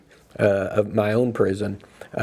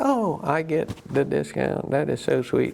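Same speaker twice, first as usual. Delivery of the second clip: whiny actress; 3 semitones higher than usual. Retold or imitated. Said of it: "she's always kind of whiny".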